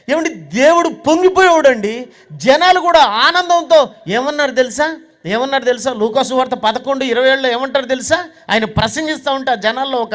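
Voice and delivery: usual speaking voice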